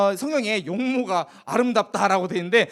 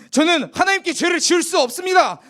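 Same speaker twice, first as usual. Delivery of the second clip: higher, resolute, no room for doubt; firm refusal; 7 semitones higher, 4 dB louder than usual. Acted. Joseph refusing Potiphar's wife, firm and higher. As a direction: refuse her flatly and firmly. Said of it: "단호하게 아주 거절을 했어요".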